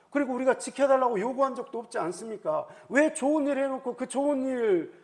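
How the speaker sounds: 따지는 말투. Acted. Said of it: "사실 이걸 따질 수가 있어요". (억울한 듯 높은 톤으로 따지기)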